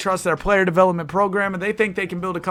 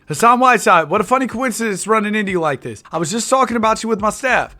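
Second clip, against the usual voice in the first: higher and louder, playing the slick GM; hammed-up GM voice; 5 semitones higher, 4 dB louder than usual. GM greeting the player he wants to sign, hammed-up and louder. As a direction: sell the fake coincidence with a showy GM voice. Redone take of the GM's line.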